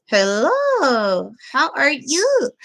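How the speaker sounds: ventriloquist voice through parted lips; lips barely moving. Shown as a demonstration. Puppeteer showing lips-parted puppet talk, lips barely moving. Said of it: "part my lips".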